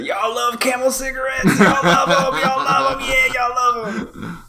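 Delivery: high, slow teasing voice; mock jab back. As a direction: taunt him right back with his own line. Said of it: "and said".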